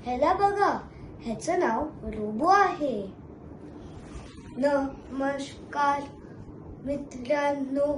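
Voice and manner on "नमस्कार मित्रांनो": very slow, even robot greeting. Acted. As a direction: speak each word like a machine. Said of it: "किती गोड बोलतो हा".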